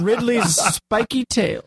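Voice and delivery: laughing, drawn out; slow laughing. Pretend. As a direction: stretch it out through a laugh.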